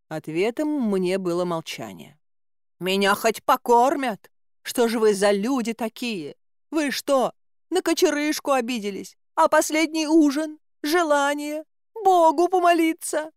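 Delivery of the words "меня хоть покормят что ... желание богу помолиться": indignant calling out. Acted. Prisoner shouting after departed guards.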